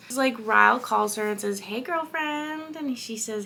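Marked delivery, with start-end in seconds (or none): 1.6-2.8 higher, drawn-out lovey greeting; cutesy. Retold or imitated. Boyfriend calls his girlfriend, imitated as cutesy. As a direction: imitate a cutesy couple, slow and high. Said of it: "they're being all cutesy".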